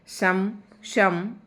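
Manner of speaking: शम said very slowly with a full श and its vowel; common mistake shown. Shown as a demonstration. Teacher showing students how they wrongly say शमशान, slowly. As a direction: stretch out शम to show the mistake of a full श. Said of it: "पहला जो श है उसे पूरा कर देते हैं".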